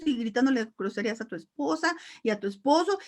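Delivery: ordinary talk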